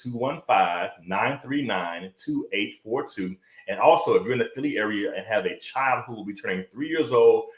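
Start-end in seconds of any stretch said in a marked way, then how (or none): 0.0-3.4 number read out slowly, softer toward the end; slow, deliberate repeat. Shown as a demonstration. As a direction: spell out each digit slowly and clearly. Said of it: "Again, that number is".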